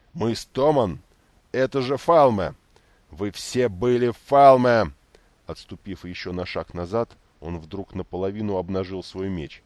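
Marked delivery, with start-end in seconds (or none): 0.1-4.9 loud, slow, furious roar; growling anger. A narrator's reading. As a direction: roar like a woken bear. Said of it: "Белоплащник зарычал, точно разбуженный медведь". (рычит, как разбуженный медведь)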